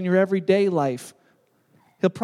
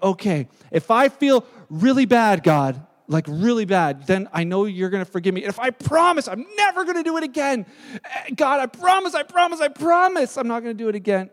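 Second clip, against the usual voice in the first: pleading sinner. Retold or imitated. Mimics sinner bargaining with God.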